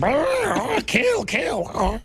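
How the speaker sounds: high shrieking chicken squawk; demonic chicken. Retold or imitated.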